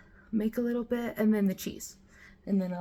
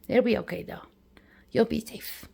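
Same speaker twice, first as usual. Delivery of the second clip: whispered reassurance; 3 semitones higher, 4 dB louder, faster than usual. Real, not acted. Comforting dog about thunderstorm.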